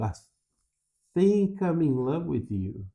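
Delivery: I think, held apart and slow; slowed replay. Shown as a demonstration. Teacher replays the line slowly to pause on think. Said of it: "Dá um pausezinho bem na hora".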